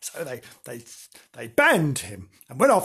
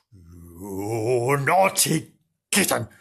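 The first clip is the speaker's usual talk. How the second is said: dog voice; 6 semitones lower, much slower than usual. Acted. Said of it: "said Nobs".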